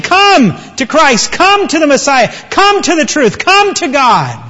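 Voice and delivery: high, ringing repeated call; urgent apostles' proclamation; impassioned preaching appeal. Acted.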